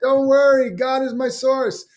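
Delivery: drawn-out holy certainty; serene believer. Retold or imitated. Harry brushing off the boatman, slow high serene voice.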